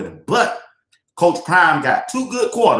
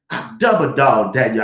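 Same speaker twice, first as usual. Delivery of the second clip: grandmama's dare; 4 semitones lower than usual. Retold or imitated. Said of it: "my grandmama".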